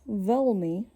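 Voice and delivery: veľmi with a dull, round American L. Shown as a demonstration. Teacher showing a wrong L, veľmi with dull L. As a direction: say veľmi with a dark, hard L. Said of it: "with a dull, round L sound".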